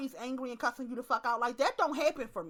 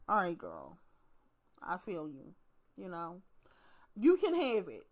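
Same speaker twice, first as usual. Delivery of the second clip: much lower, soft and soothing; soft resigned; 7 semitones lower, 5 dB quieter than usual. Retold or imitated. She soothes an angry woman in line, low and soft. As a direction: let her have it gently. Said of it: "I just be like".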